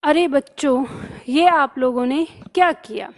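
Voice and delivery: mild surprised exclaim; a touch of amazed exclaim; surprise. Shown as a demonstration. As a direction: say it as if caught off guard by the kids. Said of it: "तो यहाँ पे आश्चर्य है".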